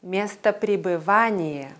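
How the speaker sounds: "место пребывания" with the main stress on "ва"; stress on fifth syllable. Shown as a demonstration. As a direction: lean long on VA in "место пребывания". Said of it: "Fünfte Silbe".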